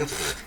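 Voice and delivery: mock spitting "pfft"; imitated cracker spit. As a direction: blow out a spluttering spit sound. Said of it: "he spits out a bunch of these".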